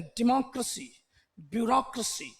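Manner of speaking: डेमोक्रेसी, ब्यूरोक्रेसी stressed on the second syllable, with reduced "kruh-see"; English pronunciation. Shown as a demonstration. Teacher showing how the English say it, English pronunciation. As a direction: say डेमोक्रेसी, ब्यूरोक्रेसी the English way, weak vowel in क्रेसी. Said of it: "अंग्रेज ऐसे बोलते हैं".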